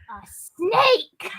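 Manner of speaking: high, loud, amused mock teenage boy; high laughing mock exclamation. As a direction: blurt it like a dopey teen while laughing.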